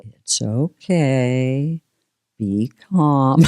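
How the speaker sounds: slow, soothing self-talk; calming herself. Retold or imitated. Guest telling herself to stay calm. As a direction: talk yourself down slowly. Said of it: "I have to say".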